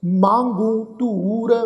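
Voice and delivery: slow, drawn-out chanted reading of the verse; measured Gurbani path recitation; slow scripture recitation. Shown as a demonstration. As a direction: recite each line slowly and reverently. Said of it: "ਹੋੜੇ ਵਾਂਗ ਉਚਾਰਨ ਹੁੰਦੀ ਆ".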